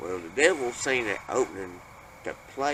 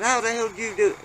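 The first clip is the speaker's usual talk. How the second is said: much higher, louder, fast demanding shout; alarmed outburst; 11 semitones higher, 5 dB louder, faster than usual. Retold or imitated. Stern dad demands how the glass moved, shouting fast. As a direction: fire the question at them, rattled.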